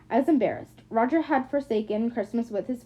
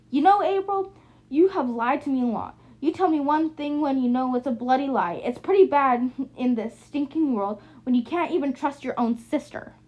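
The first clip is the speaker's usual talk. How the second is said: sister's raised, accusing voice, higher at the start; louder, aggressive; 3 semitones higher than usual. Acted. Drunk Cheryl turns on April, loud and aggressive. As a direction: push it out loud and hard at her sister. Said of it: "in a louder, more aggressive tone".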